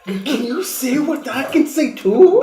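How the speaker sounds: put-on high, loud, gushing child voice; excited. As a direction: squeal it with glee. Second excited elf voice.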